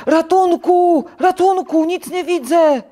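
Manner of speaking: high, loud wail of alarm; shrieking, blinded character in a panic; panicked cry for help. A narrator's reading. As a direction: scream for rescue, hammed up. Blinded toad cries for help.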